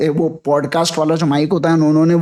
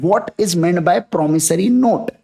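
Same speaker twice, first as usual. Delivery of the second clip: slow deliberate question; much slower than usual. Shown as a demonstration. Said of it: "teacher spells out definition".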